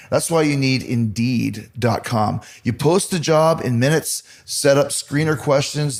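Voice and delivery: brisk sponsor read, friendly and clear; host reading a sponsor spot. Acted. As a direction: sell it like a podcast ad.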